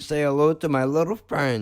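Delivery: half-hearted gangster movie line; gangster catchphrase. Acted. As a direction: deliver it as a mock mobster threat. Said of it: "that's what he says to people".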